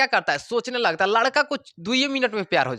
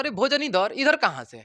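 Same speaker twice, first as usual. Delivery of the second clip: mock surprise; 6 semitones higher than usual. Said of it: "air कहता है".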